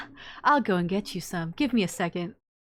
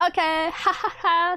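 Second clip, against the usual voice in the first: high, slow, strained laugh through the words; forced laugh; 8 semitones higher, 4 dB louder, slower than usual. Acted. Siffrin laughing at their own tears not coming, high and forced. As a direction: laugh at yourself, half desperate.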